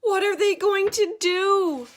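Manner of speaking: high, loud worried question; anxious question. Acted. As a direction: plead to know what happens. Child frightened by story.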